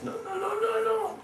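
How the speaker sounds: put-on very high, loud scolding old women; high old-woman voice, bossy and loud; shrill guardian aunts. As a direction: screech at her like a strict mother-in-law. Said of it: "Jatila, Kutila ... says".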